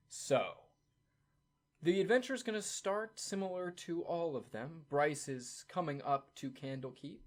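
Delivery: ordinary delivery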